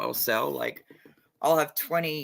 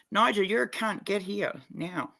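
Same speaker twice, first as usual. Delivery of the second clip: yelling at Nigel; 8 semitones higher, 4 dB louder than usual. Real, not acted. Streamer yelling at absent friend Nigel, loud mock insult. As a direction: yell it out to summon him.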